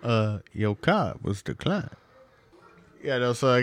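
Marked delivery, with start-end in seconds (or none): 0.0-1.9 mock clerk. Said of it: "can you tell this guy".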